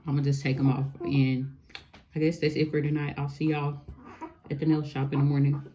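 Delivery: talking with whitening strips on teeth. Real, not acted. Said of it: "I got the whitening strips on".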